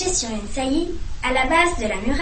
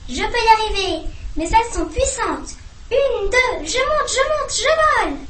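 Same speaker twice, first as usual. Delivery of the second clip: climbing higher and higher with joy; rising elation; 8 semitones higher than usual. Acted. Soren exulting as he soars, voice climbing ever higher. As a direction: let the excitement build to a cry of flight.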